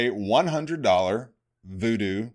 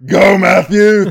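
cheering; 8 semitones higher, 13 dB louder, slower than usual. Real, not acted. Cheering a listener on air.

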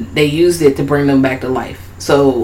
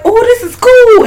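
much higher, slow and amazed; high doll voice; 4 dB louder than usual. Retold or imitated. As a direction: play a wide-eyed puppet. Voicing Shitface.

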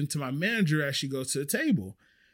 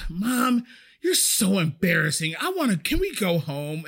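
slightly higher mock-mortified child; lightly voiced embarrassed kid; 4 semitones higher than usual. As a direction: imitate a kid pleading with mom, lightly. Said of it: "I hear her kids".

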